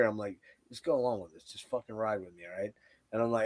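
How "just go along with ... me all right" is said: low-volume conspiratorial aside, still voiced; retold whisper. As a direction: quietly let a buddy in on the plan. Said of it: "I think I whispered in your ear".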